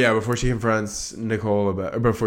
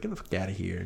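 muttered dismissal; 2 semitones lower, 11 dB quieter than usual. Retold or imitated. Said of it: "He's like".

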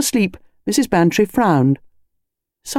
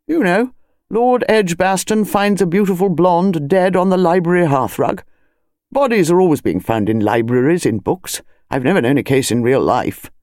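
kindly. Acted. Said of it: "He said kindly".

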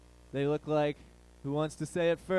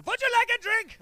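high, loud, harsh take on a sweet whisper; barked mock German; 4 dB louder than usual. German woman picking up the comic at a bar, high loud German accent. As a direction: comically shriek it in a German accent, far from demure. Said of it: "just whispers in this really sweet, demure German accent".

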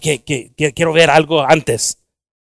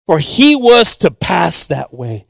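very slow, weighty reading of the verse; slow scripture reading; much slower than usual. Shown as a demonstration. Preacher reading the verse aloud, drawn-out and deliberate. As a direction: linger on every word of the scripture. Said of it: "I like to read the word so slow".

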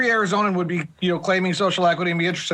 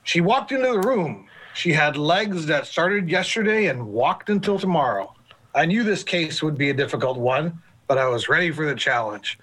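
noir detective; 3 semitones lower than usual. Pretend. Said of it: "What do you think of my detective?".

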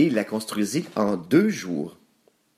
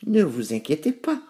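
higher piglet voice, mildly soothing; reassuring; 7 semitones higher than usual. A narrator's reading. Nouf Nouf calming his worried brothers, reassuring. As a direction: reassure in a raised pig voice. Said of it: "les rassura Nouf Nouf".

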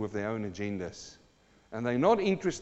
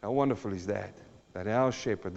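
hushed wonder; 5 semitones lower than usual. Acted. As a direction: say it almost to yourself. Hushed reflection after verse.

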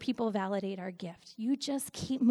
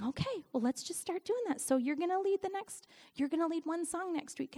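higher, gently coaxing imitation; sweet encouragement; 7 semitones higher than usual. Husband nudging her to lead one song, sweetly. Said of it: "he was so sweet and saying".

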